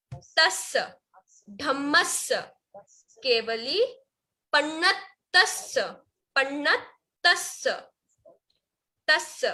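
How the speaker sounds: word by word, with pauses and held double consonants; careful recitation demo. Shown as a demonstration. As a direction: model each word slowly for repeating. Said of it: "तो फिर से".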